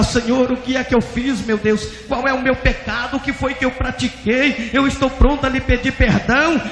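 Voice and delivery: high, urgent begging questions; retold tearful pleading. Pastor on his knees begging forgiveness, high imitated plea. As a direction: plead as if crying, without real sobs. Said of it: "começou a chorar".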